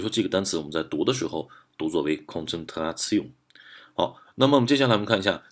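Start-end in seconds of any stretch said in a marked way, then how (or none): 2.3-3.3 "concentration" said the German way, weight landing on the closing -tion; stress on final syllable. Shown as a demonstration. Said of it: "重音应该是在最后这个音节".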